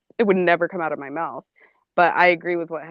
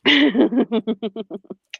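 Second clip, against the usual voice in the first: laughing; 6 semitones higher, 3 dB louder than usual. Real, not acted. Laughs at pie comment.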